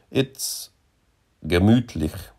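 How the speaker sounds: soft, hesitant start, then the word confided; conspiratorial, feeling for the word; tentative complicity. A narrator's reading. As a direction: offer the word tentatively, as if sharing a secret. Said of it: "in a tone of tentative complicity".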